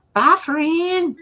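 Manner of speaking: high laughing bye; laughing goodbye. Real, not acted.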